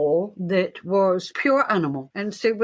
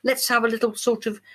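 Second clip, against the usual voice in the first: mock dismissive designer; 5 semitones higher than usual. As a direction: brush it off like a snooty designer. Mimicking dismissive costume designer.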